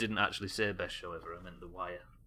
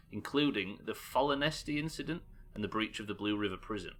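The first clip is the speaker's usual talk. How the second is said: measured, formal document reading; dossier read-aloud. Acted. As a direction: read out an intelligence report.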